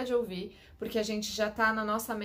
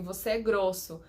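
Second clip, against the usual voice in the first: blunt accusation. Shown as a demonstration. Demo of an aggressive line, a mild accusing tone. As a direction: say it like a reproach that lands as a jab. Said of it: "é totalmente diferente você falar assim".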